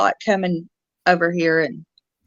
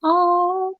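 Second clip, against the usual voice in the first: excited thanks; 11 semitones higher, much slower than usual. Real, not acted. Thanking for a gift.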